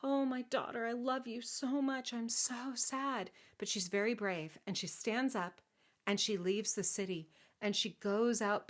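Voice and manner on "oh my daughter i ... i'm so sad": lightly hammed-up sorrow; tearful sadness. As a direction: play a heartbroken storybook king. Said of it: "tears running down his face and he's so sad".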